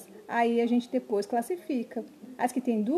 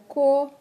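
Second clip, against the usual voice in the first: "co-mi-da" with a pause after each syllable; separate syllables; 6 dB louder, faster than usual. Shown as a demonstration. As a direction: break "co-mi-da" into three loud beats. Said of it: "Aqui tem a sílaba".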